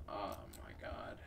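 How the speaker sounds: scared whispered gasp; whispering. Real, not acted. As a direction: whisper it in fear. Scared alone in the dark.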